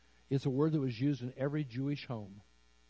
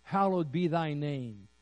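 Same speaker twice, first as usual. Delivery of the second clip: much louder, higher, slow solemn invocation; booming slow "Almighty God"; grand prayer address; 4 semitones higher, 7 dB louder than usual. Retold or imitated. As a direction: proclaim it like a formal prayer. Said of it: "Or he could have said".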